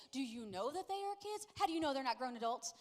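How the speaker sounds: lightly acted suspicious mother; nagging mom impression. Mom doubting son's online friends, mildly exaggerated. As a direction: press the questions like an overprotective mom. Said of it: "he says that I sound like this".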